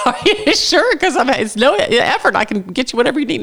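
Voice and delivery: high, eager neighborly insistence; hammed-up high-pitched helpful caller; insistent caller.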